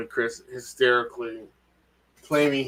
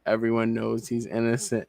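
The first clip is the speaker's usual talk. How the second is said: sarcastic. Retold or imitated. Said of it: "I'm reading a little bit of sarcasm".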